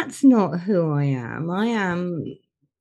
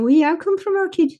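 Black Country accent; 11 semitones higher than usual. Shown as a demonstration. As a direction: show off the Dudley accent broadly. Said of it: "I can give you this one".

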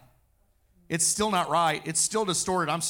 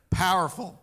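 Powerful. said louder, punched out; 5 dB louder than usual. Shown as a demonstration. Preacher to congregation after the Bible verse, louder bold proclaim. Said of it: "repeats word for effect".

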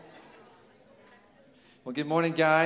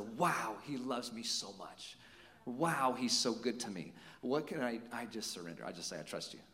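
much softer, an intimate worshipful murmur; hushed prayer; 3 semitones lower, 8 dB quieter than usual. Retold or imitated. Pastor voicing a worshipper's grateful surrender, hushed. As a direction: let it sink to a hush as if praying alone.

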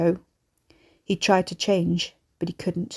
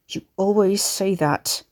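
bitter hiss, altered voice. A narrator's reading. Son to his mother, down at his chains, hissed. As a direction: hiss it resentfully. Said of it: "he hissed down at his chains".

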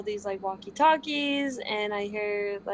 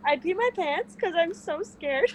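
laughing; 6 semitones higher than usual. Real, not acted. Laughing while confessing.

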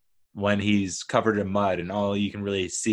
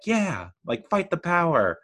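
mock fired-up rallying; 8 semitones higher than usual. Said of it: "You're like".

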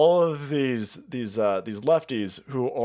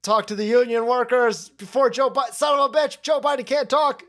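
panicked aides; 5 semitones higher than usual. Retold or imitated. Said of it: "his aides were like".

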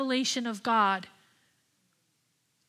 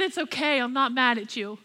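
calm reassurance. Retold or imitated. The Lord answering her angry prayer, calm and gentle. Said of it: "He said".

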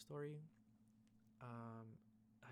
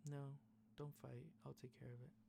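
monotone voice; 3 semitones higher, 4 dB quieter than usual. Retold or imitated. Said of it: "in a very monotone voice".

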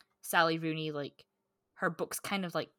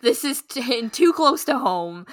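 laughing; 6 semitones higher, 11 dB louder than usual. Real, not acted. Laughing after quoting own reaction.

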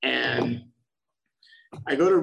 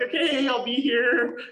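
higher, laughing through it; laughing reply; 10 semitones higher, 4 dB louder than usual. Retold or imitated. Told the club opens at six, answering with a laugh. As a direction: laugh as you promise to wait.

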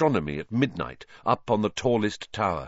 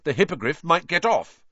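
stoutly; 8 semitones higher, 4 dB louder than usual. A narrator's reading. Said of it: "said Ron stoutly".

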